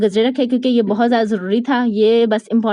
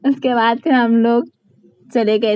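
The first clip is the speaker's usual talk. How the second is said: slow, unhurried telling; slow it right down, word by word; deliberately slow; slower than usual. Shown as a demonstration. Vlogger, after fans say she talks too fast, slows down. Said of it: "अब मैं इतना आराम-आराम से बोलती हूँ".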